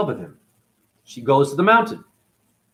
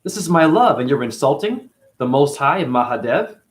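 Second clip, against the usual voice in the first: outraged Sita. Retold or imitated. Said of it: "She's like".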